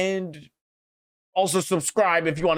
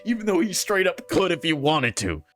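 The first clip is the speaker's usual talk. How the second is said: heated rant; 4 semitones higher than usual. Real, not acted. Ranting angrily to viewers about Deku's class. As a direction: vent in real frustration. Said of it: "I'm getting so heated".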